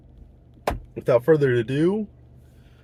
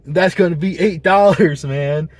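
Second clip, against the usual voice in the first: joking; 2 semitones higher, 5 dB louder than usual. Retold or imitated. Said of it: "like, in a joking way".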